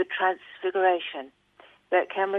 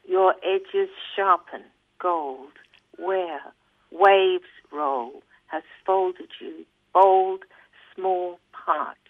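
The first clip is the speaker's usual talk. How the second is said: slow, measured poetry reading; poem reading; slower than usual. Acted. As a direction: linger on each short phrase with pauses. Reads poem aloud.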